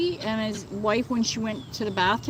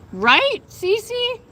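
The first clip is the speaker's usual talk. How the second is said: laughing; 12 semitones higher, 4 dB louder than usual. Real, not acted. Laughing reply to chatter.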